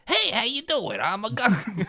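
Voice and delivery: a high, lightly voiced Gungan greeting; half-hearted Gungan impression; lame Gungan voice. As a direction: chirp a weak Gungan hello. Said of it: "expecting a pitch perfect Gungan".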